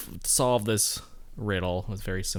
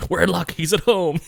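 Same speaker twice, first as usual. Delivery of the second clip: hammed-up relief; 8 semitones higher, 7 dB louder than usual. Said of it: "I love when Commissioner Gordon's like".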